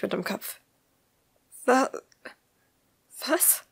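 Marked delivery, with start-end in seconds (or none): 1.7-3.6 faint, much higher shocked stammer; high and quiet. A narrator's reading. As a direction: caught off guard, voice thin and high. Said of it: "fragte sie leise".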